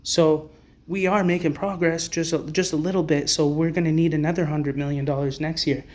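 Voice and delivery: a hint of a smug executive; mock charity spokesman. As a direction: parody a smug nonprofit boss bragging about donations. Mocking the organizations' fundraising talk.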